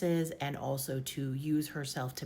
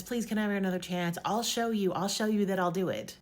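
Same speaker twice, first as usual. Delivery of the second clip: pleading; 3 semitones higher, 3 dB louder than usual. Retold or imitated. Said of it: "She's just begging for another chance".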